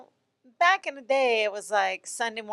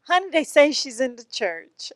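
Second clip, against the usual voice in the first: Southern saying, louder; 5 semitones higher, 5 dB louder than usual. Shown as a demonstration. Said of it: "What's the saying again?".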